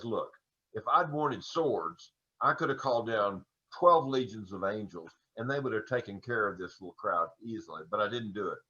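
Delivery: a hushed, low-key Jesus telling Peter he needs no swords; soft-spoken Jesus. Acted. Jesus quietly tells Peter he needs no swords. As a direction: quietly voice Jesus's calm reply.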